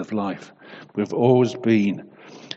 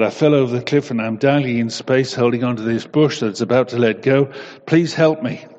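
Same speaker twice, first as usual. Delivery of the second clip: desperate plea. Acted. Man dangling from cliff pleads.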